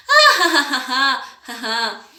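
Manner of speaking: carcajada que empieza con un grito agudo; ríe a carcajadas para los niños; risa. Shown as a demonstration. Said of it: "nos reímos así". (risa exagerada de demostración)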